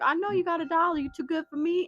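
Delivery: very high-pitched, loud hollering call. Retelling how a man on the street hollered after them: imitating a man hollering. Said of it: "He was hollering behind us".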